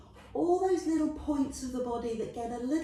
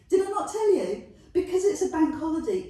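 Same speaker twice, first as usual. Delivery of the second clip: laughing tease; 4 semitones higher, 5 dB louder, much faster than usual. Real, not acted. Teasing class about long session.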